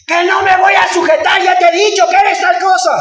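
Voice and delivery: preacher mimicking a wife's defiant shout at home; imitating a shouting wife. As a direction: act out the wife yelling at her husband. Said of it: "hermana, que está gritando".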